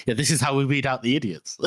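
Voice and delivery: chuckling through a callous quip; laughing Koska quote. Retold or imitated. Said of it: "It's like".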